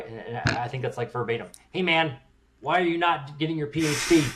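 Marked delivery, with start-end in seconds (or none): 1.7-4.2 put-on Chicagoan accent, pitched a bit high. Quoting a man in a doctoral program urging him to get a PhD, Chicagoan accent. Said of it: "in kind of like a Chicagoan accent".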